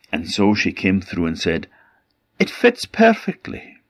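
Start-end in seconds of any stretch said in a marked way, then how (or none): 2.4-3.8 much higher, simpering voice; high sugary stepsister. Acted. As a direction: squeak it out sweetly. Stepsister claims the fit.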